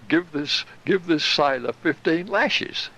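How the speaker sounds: slow, stern naval captain barking orders, only lightly voiced; a hint of a sadistic captain handing out punishment, drawn out; Captain Bligh. Storyteller mimics a captain ordering a sailor lashed, mildly stern. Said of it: "It was just like Captain Bligh".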